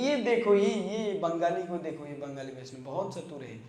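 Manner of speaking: a teacher's put-on anger, half in earnest; mock scolding. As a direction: scold the clever devotee and shout for his associates. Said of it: "Chaitanya Mahaprabhu क्रोधित होते हैं".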